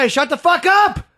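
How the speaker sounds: very loud, high drawn-out yell; yelling at full volume. Retold or imitated. Imitating a lunatic on the train, yelling at full volume. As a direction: bellow it like a raving train passenger. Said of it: "Fucking dude yelling at full volume".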